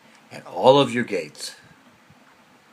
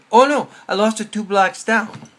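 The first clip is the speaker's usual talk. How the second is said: lightly voiced joke man; 9 semitones higher, 7 dB louder than usual. Man's reply in retold joke.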